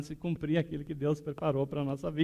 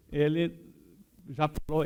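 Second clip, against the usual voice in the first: usual speaking voice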